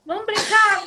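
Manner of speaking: mock playful invitation. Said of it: "Aí".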